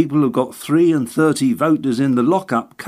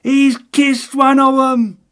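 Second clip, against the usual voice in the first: much higher, louder, slow and thrilled; delighted exclamation; 6 dB louder, slower than usual. Acted. Little agent watching his candidate kiss a baby, delighted cry. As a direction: burst out in high delight. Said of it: "exclaimed the delighted little man".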